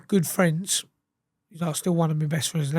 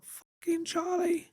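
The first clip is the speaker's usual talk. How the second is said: high, slow, wailing mock distress; hammed-up hysterical cry; imitating hysterical brother; 12 semitones higher, 6 dB quieter, slower than usual. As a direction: mimic his brother falling apart on the phone, drawn out high. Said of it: "He's hysterical".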